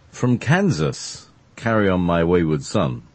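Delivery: slow, drawn-out host intro; showman introduction. Pretend. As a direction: present him like a stage announcer.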